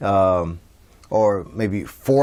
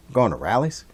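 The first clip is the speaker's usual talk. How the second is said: scoffing question with a rise at the end; mock-doubtful, dipping then rising; sarcastic; faster than usual. Shown as a demonstration. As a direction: say it as a sarcastic question, after a little huff. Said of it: "maybe sarcastic".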